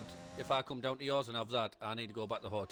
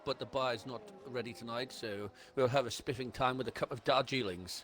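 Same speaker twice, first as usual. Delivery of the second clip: lightly put-on posh English; a hint of hammed-up posh English; mock posh. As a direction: play the posh host. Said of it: "it's very posh tonight".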